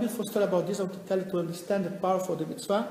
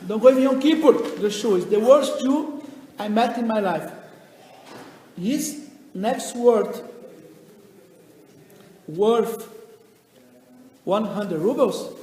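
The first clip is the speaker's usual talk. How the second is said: indignant wife; 2 semitones higher, 7 dB louder than usual. Acted. Wife complains to the rabbi.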